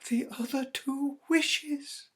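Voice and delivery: high, loud, slow and insistent; eager. Acted. Wife tells her husband of the wishes, high and loud. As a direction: press it on him urgently. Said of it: "she replied rapidly".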